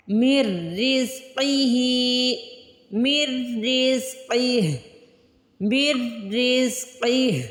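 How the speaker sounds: मिर said as मि plus doubled र, no नून; merged mir. Shown as a demonstration. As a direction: join मीम straight into रिज़्क़िही. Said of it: "मिर पढ़ना है".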